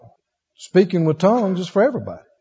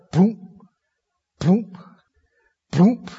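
short popped boom; imitated thud; much slower than usual. Seeker hearing men fall around him, imitated thuds. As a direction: mimic bodies dropping, spaced out.

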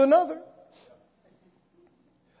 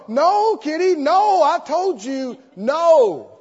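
higher, half-hearted scolding of a kitty; firm words to a cat; 5 semitones higher, 4 dB louder, slower than usual. Retold or imitated. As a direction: shoo the kitty away without meaning it. Shooing the cat away.

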